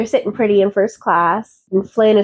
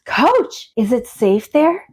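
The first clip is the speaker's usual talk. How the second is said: mock shock; 2 semitones higher, slower than usual. Ditzy passenger told to sit in coach, mildly shocked. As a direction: play the ditzy passenger lightly appalled.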